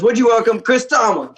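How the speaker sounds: high-pitched emcee welcome with amusement; imitated host announcing the guest; mock stage introduction. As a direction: bring on the act in a hammed-up high voice. Acting host's big introduction, amused.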